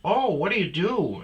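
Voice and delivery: high, loud surprised woman; surprised gym lady. Retold or imitated. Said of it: "And she goes".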